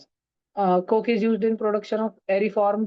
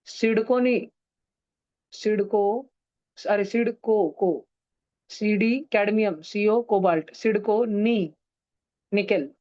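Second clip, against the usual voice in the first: slow, broken-up mnemonic syllables; slow recital; slower than usual. Shown as a demonstration. Teacher decoding the memory trick for students, slowly. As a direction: spell the trick out piece by piece, slowly. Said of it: "धीरे धीरे बोल देता".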